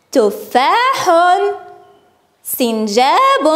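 drawn-out single words; slow word modelling. Shown as a demonstration. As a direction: repeat the list slowly for pupils. Teacher repeats list for pupils.

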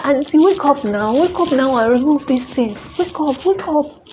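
pleading call. Retold or imitated. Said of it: "calling her".

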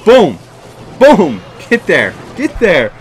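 high, loud shouted boom; real gleeful shout; triumphant boom. Real, not acted. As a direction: shout it on each hit. Big hits land in game.

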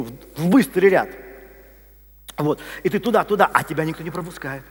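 ordinary talk, nothing marked

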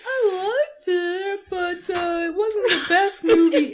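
high, slow, whimpering half-laughed review; fake-cry the verdict; hammed-up tearful review; mock whiny verdict. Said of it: "And I'm like".

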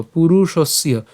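পুরুষস্য as one connected word; careful unbroken পুরুষস্য; joined pronunciation. Shown as a demonstration. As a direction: join the s and ya in পুরুষস্য. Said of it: "এটাও আমরা একসাথে উচ্চারণ করবো".

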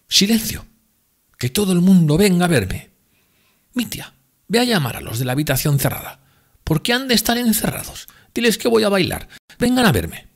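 high, loud tipsy woman pleading; drunk Grushenka. Acted. Grushenka calls everyone.

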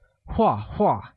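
画画 as two separate falls in pitch; falling tone. Shown as a demonstration. Teacher says the repeated word, 画画 with two falling tones. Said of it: "pronounced with a falling tone".

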